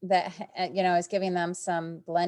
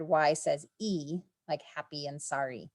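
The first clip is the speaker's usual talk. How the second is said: slow teacher demo; 3 semitones lower, 5 dB quieter than usual. Shown as a demonstration. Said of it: "teacher demo of sound".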